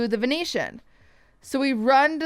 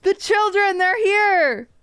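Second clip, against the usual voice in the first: mock panic; 8 semitones higher, 4 dB louder than usual. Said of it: "I was like".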